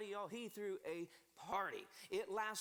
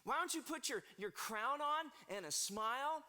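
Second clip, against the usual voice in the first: put-on drunk sweet-talk. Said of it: "he's like".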